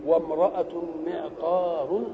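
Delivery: وامرأة معطار drawn out; slow example. Shown as a demonstration. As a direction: spell out وامرأة معطار slowly. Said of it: "تقول إيه؟".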